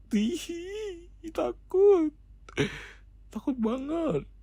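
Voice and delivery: very high, squeaky fake crying; mock scared whimper. Boyfriend pretending fear of his angry girlfriend, squeaky mock crying. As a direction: squeal it like a hammed-up frightened child.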